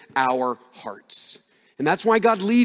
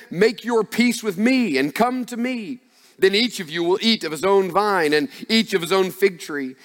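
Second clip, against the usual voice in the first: raised, ringing proclamation, half acted; proclaiming herald; 3 semitones higher than usual. The Assyrian herald taunting the people of God, raised proclaiming voice. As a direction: call it out like a taunting herald over the walls. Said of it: "called out in a loud voice".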